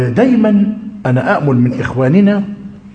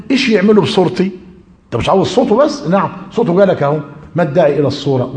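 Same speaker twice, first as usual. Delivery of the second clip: quoting the sheikh; 4 semitones higher, faster than usual. Retold or imitated. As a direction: lightly voice the sheikh's famous retort. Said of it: "حتى قال كده كلمته المشهورة". (تقليد خفيف لصوت الشيخ بنبرة أعلى)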